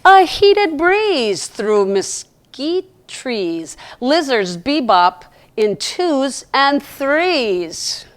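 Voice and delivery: slow, gentle rhyming read; poem reading. Acted. Reads a rhyming poem aloud.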